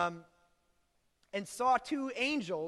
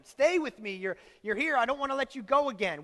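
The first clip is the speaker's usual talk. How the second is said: raised, louder acted pleading; clinging plea; 4 semitones higher, 4 dB louder than usual. Mary clinging to Jesus after losing him, pleading. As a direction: plead as if holding on to someone.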